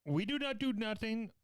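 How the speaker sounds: put-on Ugandan accent. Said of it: "that was clearly a Ugandan pretending to be Irish".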